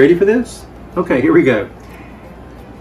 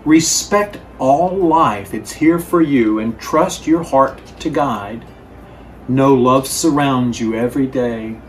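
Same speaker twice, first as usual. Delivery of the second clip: gentle, unhurried wise letter voice. Acted. Reads grandfather's letter aloud.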